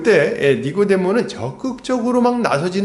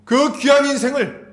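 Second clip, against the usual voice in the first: higher, rising sermon fervor; fervent preaching; 6 semitones higher than usual. Acted. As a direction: preach it with mounting intensity. Preaching climax.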